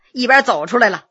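ordinary delivery, nothing marked

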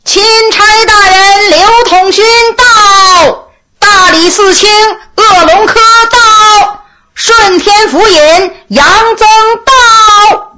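high, drawn-out official announcement; high herald's call. A narrator's reading. A herald announces the arriving officials to the crowd, high drawn-out call. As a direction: call out each arrival on a long, sustained high note. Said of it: "就听里边有人高喊一声".

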